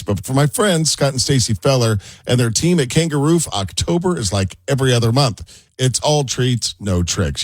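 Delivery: friendly scripted sponsor pitch; ad read. Acted. Radio host recommends friends' roofing company to listeners, ad read.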